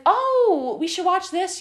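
high, eager mock boyfriend. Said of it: "he was like".

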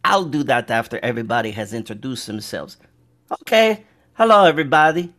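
lightly voiced little halfling introducing himself; halfling adventurer. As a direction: play a halfling telling of his deeds, with hesitations. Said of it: "He goes".

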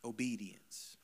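a single word, whispered. Shown as a demonstration. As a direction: breathe the word out, no voice. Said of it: "whispered key word".

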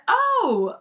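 lying voice. Retold or imitated. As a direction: go way up high like you're caught lying. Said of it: "you start lying, your voice get high".

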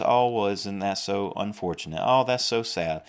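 lightly acted pitying sympathy; a touch of put-on commiseration; mock pity. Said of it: "It's not just pity".

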